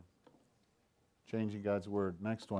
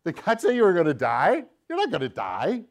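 lightly voiced tempter, doubting questioning lilt; Satan; 3 semitones higher than usual. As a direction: swoop down and up into mocking doubt. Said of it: "Here's what he says".

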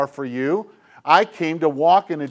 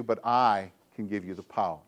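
soft whisper; 9 semitones lower, 10 dB quieter than usual. Retold or imitated. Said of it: "he whispers to you".

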